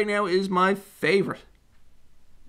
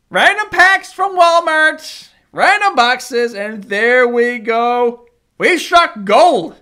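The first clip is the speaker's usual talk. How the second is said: excited; 8 dB louder, slower than usual. Real, not acted. Savoring a big pull.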